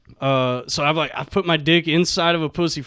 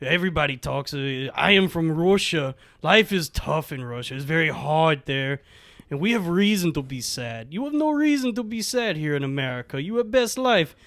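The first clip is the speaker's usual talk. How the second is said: put-on Russian accent; 3 semitones lower, 6 dB quieter than usual. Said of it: "She goes".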